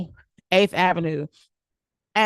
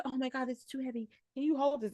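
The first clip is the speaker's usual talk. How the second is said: mock singer quote; 5 semitones higher, 11 dB quieter than usual. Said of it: "she said".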